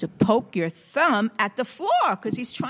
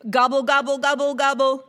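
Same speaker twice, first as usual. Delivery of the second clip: higher, even, rhythmic gobbling; turkey gobble; 5 semitones higher, 4 dB louder, faster than usual. Shown as a demonstration. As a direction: show off a simple turkey gobble. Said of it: "show me your gobble".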